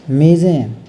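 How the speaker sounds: मेज़ें with a clear z, not j; nukta z sound. Shown as a demonstration. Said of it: "देखो मेज का मेज़ें".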